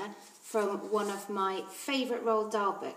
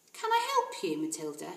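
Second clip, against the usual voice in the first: kindly librarian; 3 semitones lower than usual. Acted. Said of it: "she asked".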